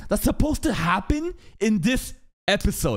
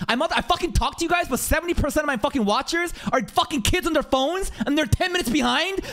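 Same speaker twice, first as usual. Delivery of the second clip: ranting at chat; 6 semitones higher than usual. Real, not acted. Streamer ranting at mobile viewers ten minutes behind, building exasperation. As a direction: vent at the lagging viewers, climbing to a yell.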